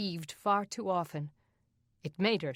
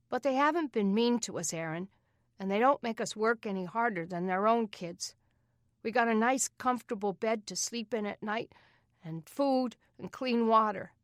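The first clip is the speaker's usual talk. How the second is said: put-on younger boy voice; 5 semitones higher than usual. Joey arguing with his brother.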